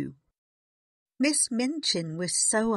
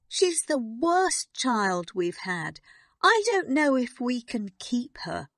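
almost crying; 6 semitones higher, 4 dB louder than usual. A narrator's reading. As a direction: despair close to tears. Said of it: "almost crying".

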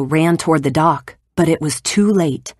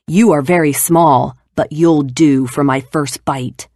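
roaring giant. Acted. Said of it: "the giant roared".

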